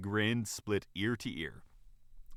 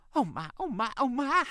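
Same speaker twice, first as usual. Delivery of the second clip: high exclamations building louder; extremely excited; 5 dB louder than usual. Acted. Fox mother bolting for the door, excited. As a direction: squeal it higher each time. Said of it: "began to sound extremely excited".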